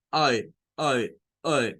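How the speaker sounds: ay said as one blend of A and E, lips spread; short A sound. Shown as a demonstration. Teacher demonstrates the short A sound to students. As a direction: demo the short A, ay, mixing A into E. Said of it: "Short A es el nombre que recibe y es".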